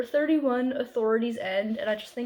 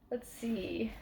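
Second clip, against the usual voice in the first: whispered; 11 dB quieter than usual. Real, not acted. Searching the book, muttering to self.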